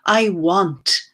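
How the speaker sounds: slow, deliberate recital with spaced-out lines; poetry reading. Acted. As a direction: give each image its own pause. Reads second poem aloud.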